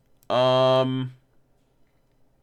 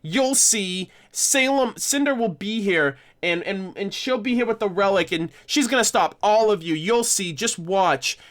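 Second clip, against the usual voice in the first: lightly higher mock taunt; sing-song it like a smug kid; a hint of a bratty schoolgirl; prissy schoolgirl; 4 semitones higher than usual. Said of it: "one of those prissy, like, middle school girls".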